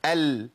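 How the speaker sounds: "ال" said as a model, held briefly on the L; lam demonstration. Shown as a demonstration. Teacher has students say it along, demonstrated lam. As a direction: model a clear L in "ال". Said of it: "طب قولوا معايا كده".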